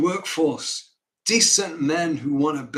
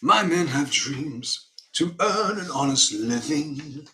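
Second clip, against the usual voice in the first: put-on slow, heartfelt pleading in a northern accent; John Northbrook; 3 semitones higher, slower than usual. Northerner promises banker he'll repay, slow heartfelt northern accent. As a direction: make a slow, earnest appeal in a northern accent. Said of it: "an honest northerner who presents his argument".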